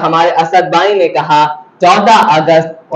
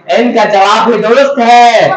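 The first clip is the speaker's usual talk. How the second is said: raised-pitch quiz verdict; triumphant announcement; 4 semitones higher, 3 dB louder than usual. Real, not acted. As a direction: announce the right answer with a rising build. Quiz host announces correct answer.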